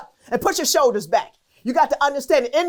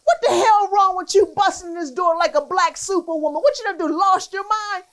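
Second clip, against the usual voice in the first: half-laughing as the scolding mom; Girl tossed out high through a laugh; 6 semitones higher than usual. Retold or imitated. Mom scolds her daughter for bursting through the door, laughing while voicing her.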